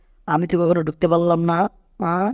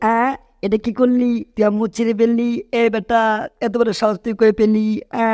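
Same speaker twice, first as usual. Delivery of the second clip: raised, higher angry yell at the culprit; angry outburst; 5 semitones higher than usual. Acted. Tom yelling at the octopus who tore his face, angry. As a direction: snap at him for tearing his face.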